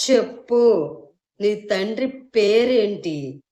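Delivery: loud, slow demanding yell; furious husband shouting his demand. Acted. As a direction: bark the question at her. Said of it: "అంటూ అరిచాడు విహాన్".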